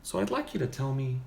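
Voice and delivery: lightly played therapist, soft and measured; psychotherapist. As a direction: counsel a patient quietly, with long pauses. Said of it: "Do a psychotherapist?".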